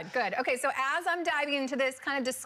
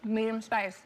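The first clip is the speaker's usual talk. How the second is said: talking with a mouth full of food; words round a bite of chicken; slower than usual. Real, not acted. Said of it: "I got my mouth full".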